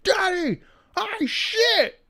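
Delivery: very high squeaky mock little-girl voice; dog's voice. Owner voicing his dog announcing she pooped. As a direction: announce it like a proud toddler. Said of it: "we have a voice for it".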